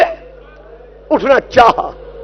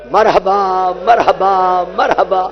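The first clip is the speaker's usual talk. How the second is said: lament recitation. Acted. Reciter chanting Karbala's grief to the gathering. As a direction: chant the tragedy to the mourners.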